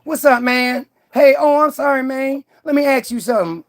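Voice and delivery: mock street-slang phone voice; thug accent. Man answering a phone call for Michael Jones, thug accent. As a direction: put on a casual thug accent. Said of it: "And he's like".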